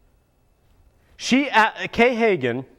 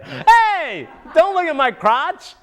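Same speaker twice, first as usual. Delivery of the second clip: laughing; 7 semitones higher, slower than usual. Pretend. Mock complaint to camera.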